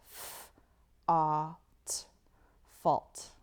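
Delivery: "F-, ah, t" then "fault"; sounded out fault. Shown as a demonstration. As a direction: segment "fault" slowly. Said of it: "I can hear it as I say it".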